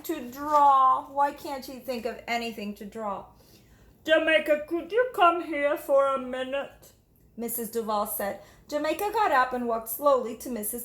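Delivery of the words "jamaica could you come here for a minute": warm teacher voice. Acted. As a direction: praise her reading kindly. Teacher calls Jamaica.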